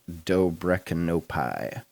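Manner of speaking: "Dobrechnopai" sounded out slowly; guessed pronunciation. Real, not acted. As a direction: read "Dobrechnopai" slowly, guessing at the foreign name. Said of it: "Pretty sure that's how it's pronounced".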